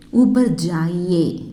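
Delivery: ஊப்பர் ஜாயியே slowly, stretching ஜாயியே; pronunciation model. Shown as a demonstration. Teacher showing learners the respectful "go up", slow pronunciation model. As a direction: draw out ஜாயியே for learners to copy. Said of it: "ஜாயியே அப்படிங்கிற வார்த்தை pronounce பண்ணணும்".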